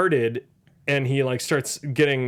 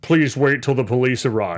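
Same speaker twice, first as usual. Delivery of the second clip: robot voice; 5 semitones lower than usual. Retold or imitated. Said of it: "Shouldn't it be like".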